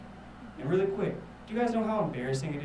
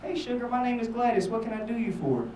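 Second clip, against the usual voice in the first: put-on higher-pitched sweet-talking old woman; old lady; 5 semitones higher than usual. Gladys answering the call about the dog poster, high old-lady voice. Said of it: "This old ass lady answers".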